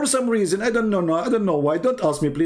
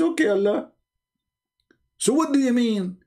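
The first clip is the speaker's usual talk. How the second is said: mock Adam; 5 semitones higher than usual. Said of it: "And then Adam, he says".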